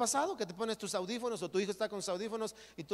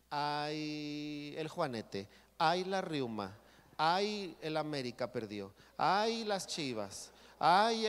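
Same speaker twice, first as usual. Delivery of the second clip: self-pitying whine, sighing on each ay; mock the complainers with a sulky ay; whiny complaining; slower than usual. Pastor mocking self-pitying churchgoers, whiny sulky sighs.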